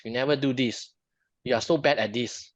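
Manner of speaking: mildly accusing partner's complaint; lightly acted fault-finding; criticizing. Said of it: "it's like criticizing".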